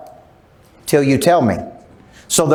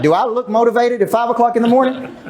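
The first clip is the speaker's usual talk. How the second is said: higher, laughing protest; laughing disbelief; 6 semitones higher than usual. Retold or imitated. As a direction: laugh it off, half complaining. Joking about early gym.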